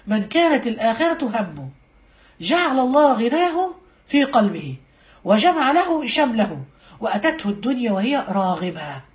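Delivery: slow, measured recital; hadith recitation. Real, not acted. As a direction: recite it phrase by phrase, with pauses. Recites the hadith once more.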